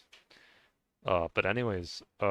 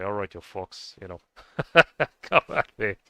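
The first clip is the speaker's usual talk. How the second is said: laughing mock challenge; 7 dB louder than usual. Imagining Bjorn with his axe.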